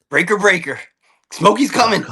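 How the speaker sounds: trucker calling over the CB; CB radio trucker. Pretend. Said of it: "just a C B radio".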